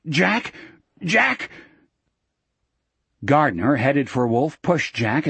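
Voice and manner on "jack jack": high, rising anxious calls; frightened. A narrator's reading. Wolf seeking Jack as men close in, frightened. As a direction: plead with the name, pitch climbing each time. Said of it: "Wolf looked suddenly frightened".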